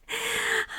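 high, whispery little giggle. Pretend. Lover teasing a partner, breathy little laugh. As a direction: let out a short breathy chuckle. Amused mid intimate roleplay.

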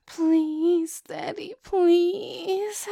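high, slow drawn-out begging; pleading. Acted. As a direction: stretch out the plea.

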